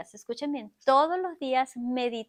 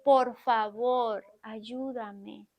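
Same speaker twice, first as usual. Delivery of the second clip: pleading; 3 semitones lower, much slower than usual. Acted. Jesus pleading for help.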